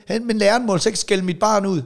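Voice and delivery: high mocking parent voice; lightly voiced complaining parent; mock whiny parent. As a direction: imitate an indignant parent. Mimicking an entitled parent.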